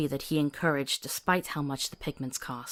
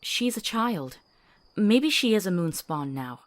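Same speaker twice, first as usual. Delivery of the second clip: earnest pleading; 3 semitones higher than usual. Acted. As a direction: push her case, rising towards help her. Pleading to spare the child.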